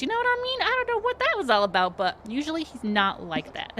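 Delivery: very high, fast, gushing perky voice; bubbly HR lady. Acted. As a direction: chirp it out like an overeager hostess.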